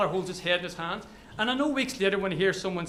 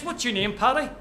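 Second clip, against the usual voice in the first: English soldier's question, lightly mimicked; touch of mock-English on the name; weird English accent; 4 semitones higher than usual. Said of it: "in his weird English accent".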